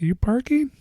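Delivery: put-on high, light Asian accent. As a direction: imitate a mild Asian accent. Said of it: "had, like, an Asian accent".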